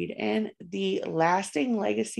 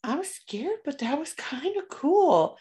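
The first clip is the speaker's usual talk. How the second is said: put-on high kid voice; 8 semitones higher than usual. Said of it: "being like".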